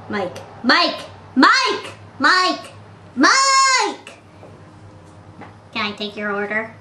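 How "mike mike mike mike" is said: rising shout. Acted. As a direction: build the name up to a high yell.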